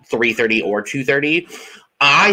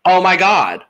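Brittany's mock overwhelm; 4 semitones higher, 3 dB louder than usual. Acts Brittany overwhelmed after winning.

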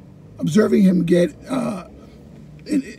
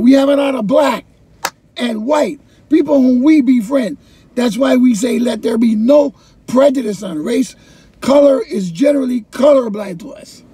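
poet declaiming; 4 semitones higher, 5 dB louder than usual. Retold or imitated. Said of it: "he started saying".

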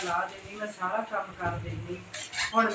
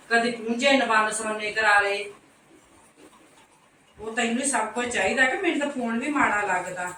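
loud, sharp, indignant scolding; mother-in-law loudly scolding the daughter-in-law over her phone; angry scolding; 2 semitones higher, 7 dB louder than usual. Acted. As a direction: tell her off, loudly and fed up.

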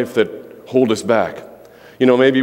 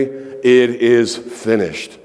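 bold declaration. Shown as a demonstration. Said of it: "You need to say".

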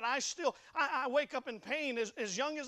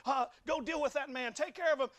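mildly angry retold order, raised pitch; worked-up command, higher toward the end; mad king; 4 semitones higher than usual. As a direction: lightly act out an indignant king giving orders. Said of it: "David gets mad".

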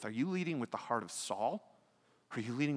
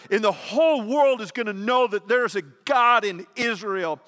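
full-force preaching; 9 semitones higher, 11 dB louder than usual. Acted. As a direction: thunder it out from the pulpit, slowing at the end. Preaching David's speech at full force.

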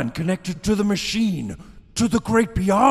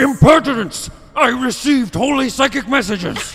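loud, high indignant shout; villain insulted and shouting; outraged; 5 semitones higher, 4 dB louder than usual. Acted. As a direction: bark it out in offense.

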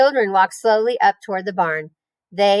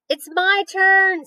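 high, slow, insistent claim; insistent girl; 11 semitones higher, much slower than usual. A narrator's reading. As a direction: demand your turn. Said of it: "said Fern".

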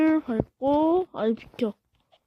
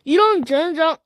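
cursing under breath; 2 semitones higher, 4 dB louder than usual. Real, not acted. Fails jump, curses.

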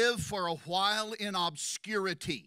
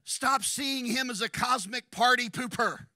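preaching shout; 4 semitones higher, 5 dB louder than usual. Real, not acted. Preacher exhorting loudly.

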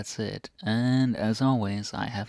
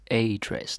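"a" stressed and said as "ay" before "dress"; emphatic, full-vowel "a", set up for contrast. Shown as a demonstration. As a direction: punch the article "a" in "a dress". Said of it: "not to dress".

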